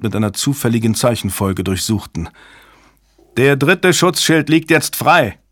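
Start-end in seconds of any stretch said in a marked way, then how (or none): 3.4-5.4 higher, urgent cry of alarm; shout. A narrator's reading. A voice reports the third shield down, shouted. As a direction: call out an urgent alert. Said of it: "schrie eine Stimme".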